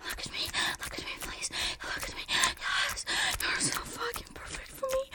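soft breathy whisper. Acted. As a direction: whisper it close to the ear.

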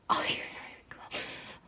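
soft breathy whisper. Real, not acted. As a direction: drop to a whisper.

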